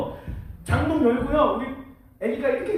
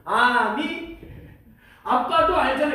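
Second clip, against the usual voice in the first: put-on child's protesting answer, louder at the end; young daughter; 3 dB louder, slower than usual. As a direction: imitate a little girl answering dad. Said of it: "제 딸의 대답이 뭘게요?".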